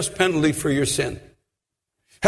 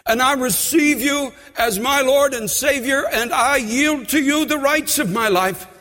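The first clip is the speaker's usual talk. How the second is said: leading a sincere prayer of surrender; sinner's prayer; 4 semitones higher than usual. Shown as a demonstration. Preacher models the prayer for the congregation, earnest. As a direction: pray it for them to repeat.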